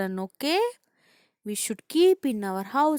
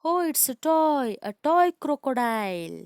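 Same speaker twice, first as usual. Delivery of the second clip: relieved discovery; 3 semitones higher, 4 dB louder than usual. Acted. Teacher voicing Miss Rupali's relief.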